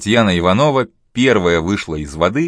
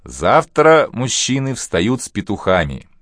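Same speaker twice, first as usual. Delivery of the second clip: host announcing; 4 semitones higher than usual. Acted. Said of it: "объявил хозяин".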